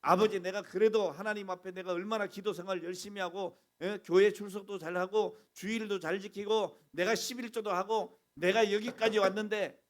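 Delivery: self-righteous believer grumbling loudly; indignant complaint. Retold or imitated. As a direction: protest your own goodness to God. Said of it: "막 이런 적이 있어요".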